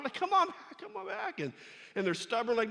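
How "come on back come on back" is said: high, loud call after runaway sheep. Retold or imitated. Shepherd David calling his scattered sheep. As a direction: shout for the flock to come back.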